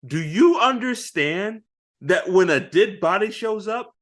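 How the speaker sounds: a hammed-up fed-up boss lecturing; exasperated captain. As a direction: explain police work to idiots, fed up. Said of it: "He's like".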